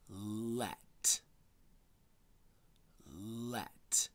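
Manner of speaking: soft unvoiced Let, mouth shaping it; whispered word. Shown as a demonstration. Teacher whispering a spelling word for children to repeat. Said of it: "Repeat after me".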